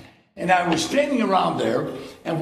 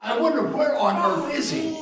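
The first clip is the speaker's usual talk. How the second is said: mock impatient fretting; 6 semitones higher than usual. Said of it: "And she can tell I'm angry".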